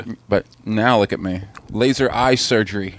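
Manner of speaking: talking while chewing gum; words round a wad of gum. Real, not acted. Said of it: "put gum in your mouth when you're talking".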